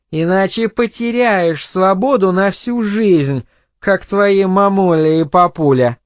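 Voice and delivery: tipsy crude mother. Acted. Drunk mother gives son crude advice, taunting.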